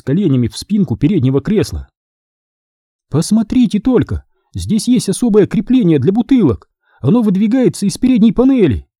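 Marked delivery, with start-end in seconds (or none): 3.1-8.9 higher, delighted mother showing off the car; a mother thrilled by the new van, exclaiming; excited exclaiming. A narrator's reading. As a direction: gush over a new gadget. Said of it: "воскликнула мать Грега".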